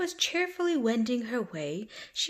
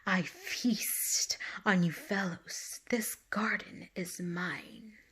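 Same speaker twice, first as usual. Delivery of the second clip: slow, breathy hissed whisper; sly snake hissing slowly under his breath; 4 dB quieter, slower than usual. Acted. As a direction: hiss it like a snake in the shadows. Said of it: "the snake hissed".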